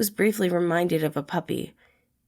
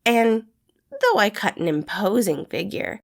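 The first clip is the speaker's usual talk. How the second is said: higher, louder playful jabs; poking fun at a grumpy loner; teasing young man; Remus, cheeky and teasing; 6 semitones higher, 3 dB louder than usual. A narrator's reading. Remus voiced in story.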